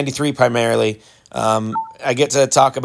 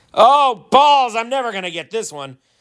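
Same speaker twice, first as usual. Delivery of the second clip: very high, swooping, overwrought emotional outburst; 9 semitones higher than usual. Missing a golf shot and reacting aloud: emotional outburst. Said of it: "I'm emotional".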